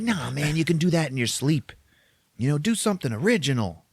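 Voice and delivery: high, swooping ex-hippie voice; Dennis Hopper impression. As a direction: nudge him on, hippie-style. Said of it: "So then Dennis Hopper's like".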